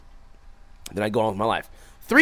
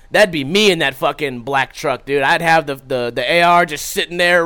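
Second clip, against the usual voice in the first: ordinary delivery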